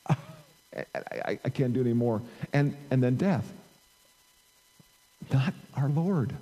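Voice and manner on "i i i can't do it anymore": acted dying gasp, very quiet at first; breathless, spent mock dying voice; agonized last breath. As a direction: gasp it out as if giving up. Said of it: "the last breath would be taken with ... agony".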